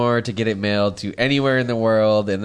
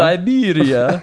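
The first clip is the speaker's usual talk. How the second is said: incredulous; 5 semitones higher, 4 dB louder, much slower than usual. Real, not acted. Incredulous echo.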